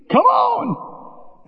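high mock call; high hammed-up call. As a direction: call him out of the boat. Jesus calls Peter out.

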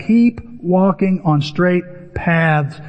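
each word drawn out slowly; slow emphatic scripture reading; slow, deliberate reading. Shown as a demonstration. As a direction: read it slowly, weighing every word. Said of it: "Circle that".

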